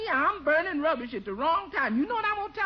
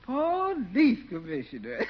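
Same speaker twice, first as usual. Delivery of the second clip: laughing; slower than usual. Acted. Bertie laughing at the title.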